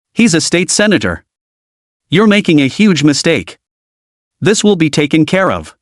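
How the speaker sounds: a hint of drunken entitlement; lightly slurred, haughty warning; slurred and indignant. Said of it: "broadcasting Diana's slurred, indignant voice".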